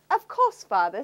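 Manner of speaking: sweetly obliging princess; cartoon princess. Dutiful princess reply.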